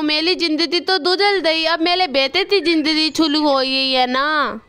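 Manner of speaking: lisped, "अथा दो तल" for "अच्छा तो सर"; lisping crow. Acted. Kalu crow to the doctor, lisping after the surgery. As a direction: say "थाता" with a childlike lisp. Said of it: "आप तो तोतले हो गए हैं।".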